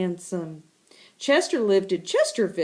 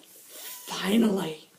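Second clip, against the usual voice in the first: smug relief; 3 semitones lower than usual. Acted. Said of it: "Chester says".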